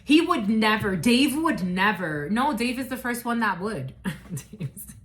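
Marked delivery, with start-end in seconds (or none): 0.0-2.3 mock disbelief. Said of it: "for some of you, it's like".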